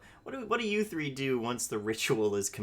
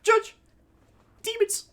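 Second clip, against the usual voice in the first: high, loud mock outcry; shouting; 8 dB louder than usual. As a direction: yell it out in alarm. Mock outrage calling out.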